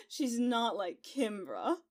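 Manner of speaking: laughing. Acted. Maid defends Celeste, laughing.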